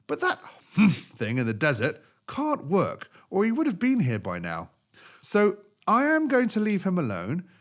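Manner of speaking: a master apologising and deciding; the man addressing the animals. Acted.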